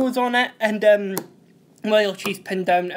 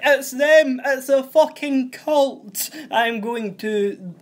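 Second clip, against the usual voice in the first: panicked shout; 5 semitones higher, 3 dB louder, slower than usual. Retold or imitated. Window smashed, Ali panics.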